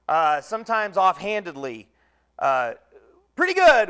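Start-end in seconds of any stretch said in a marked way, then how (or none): 3.4-3.9 offhand reply. Shown as a demonstration. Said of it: "we say about ourselves to others".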